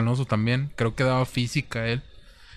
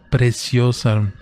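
slow drawn-out gush; 5 dB louder, much slower than usual. Retold or imitated. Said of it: "Y lo dice".

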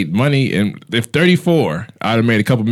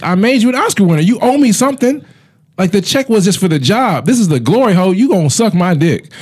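mock producer rant; 8 semitones higher than usual. Voicing Weinstein to actress.

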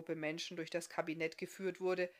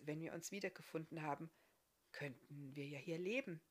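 hopeful; 6 dB quieter than usual. A narrator's reading. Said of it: "dachte der Bartriese hoffnungsvoll".

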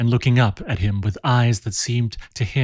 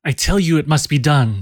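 imperious cry; 5 semitones higher than usual. Acted. Barbe to Jean, crying out imperiously. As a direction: command him, allow no refusal. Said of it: "she cried imperiously".

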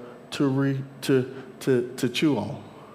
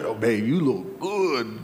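mock flattery; 5 semitones lower, 3 dB quieter, slower than usual. Wife flattering her husband, acted.

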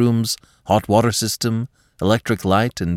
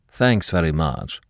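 formal; 2 semitones lower than usual. Acted. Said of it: "in the same formal voice".

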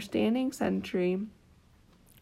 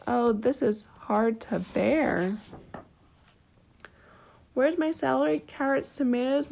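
mock lament; 3 semitones higher than usual. Gardener laments his ruined garden.

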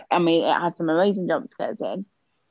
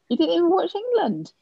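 gasp, then high disbelieving question; shocked; 12 semitones higher than usual. Real, not acted. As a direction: sound truly scandalised.

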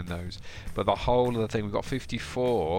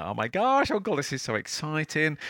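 put-on excited child; 7 semitones higher than usual. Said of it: "It's like".

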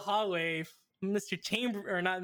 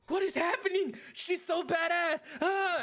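awed; 9 semitones higher than usual. Retold or imitated.

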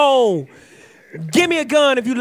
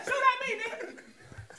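high strained taunt; 10 semitones higher, 13 dB quieter, slower than usual. Pretend. Acting blind man taunting.

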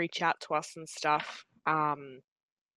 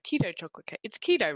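chewing while talking; 3 semitones higher, faster than usual. Real, not acted. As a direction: mouth full of cake. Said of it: "anyone wants to hear me, like, chewing".

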